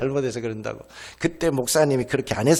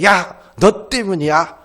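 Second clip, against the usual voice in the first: put-on little sister yelling at her older sister that it's her fault; blaming older sister; 5 semitones higher, 5 dB louder than usual. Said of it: "괜히 언니 책임을".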